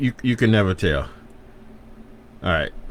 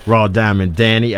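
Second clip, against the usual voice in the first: radio announcer; 3 semitones lower than usual. Shown as a demonstration. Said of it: "the whole thing is like a pimp".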